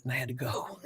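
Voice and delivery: light chuckling retelling; laughing. Retold or imitated. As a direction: quote her with a laugh. Chelsea quoted, laughing at herself.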